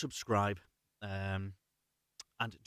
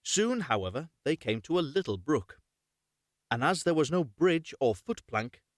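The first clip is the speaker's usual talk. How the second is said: lively storybook read, a bit louder; story narration; 4 dB louder than usual. A narrator's reading. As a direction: read the fairy tale aloud to your viewers. Reads fairy tale aloud.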